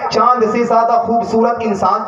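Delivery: high, ringing sermon crescendo; full-force preaching. Acted. Preacher voicing Bahlool challenging Harun over his disciple, full-force preaching. Preacher builds to the story's climax.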